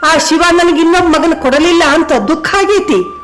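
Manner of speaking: a mother holding back tears to speak of her country; understated grief in a mother's defiant reply; grieving village mother. Acted. Grieving mother declares her patriotism.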